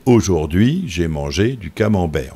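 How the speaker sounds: "Aujourd'hui", "mangé", "camembert" each leaning on the last syllable; slow phrases, each stressed at its end; end-stress "Aujourd'hui", "mangé" and "camembert", unhurried; natural French stress. Shown as a demonstration. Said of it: "le français naturel, c'est".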